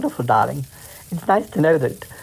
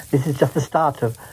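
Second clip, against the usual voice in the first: breaking character giggling; 3 semitones lower than usual. Real, not acted. Giggles while in role.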